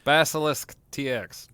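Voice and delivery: final emphatic repeat of the band name; loud emphatic repeat. Real, not acted. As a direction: hammer the name home. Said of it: "I just said their website five times".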